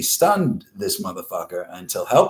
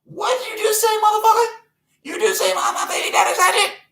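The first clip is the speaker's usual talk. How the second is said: very high put-on voice, indignant; outraged squawk. Insulted one answering the host, high outraged squawk. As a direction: shriek back in mock disbelief at the insult.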